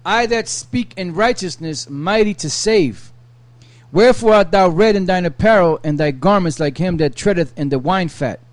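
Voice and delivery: measured Bible reading voice; steady reading of old scripture. Acted. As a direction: read the verses like a lector. Reads Isaiah aloud.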